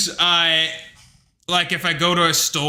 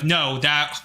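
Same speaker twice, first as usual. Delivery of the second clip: exasperated retort; 4 semitones higher, slower than usual. Retold or imitated. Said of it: "and I'm like".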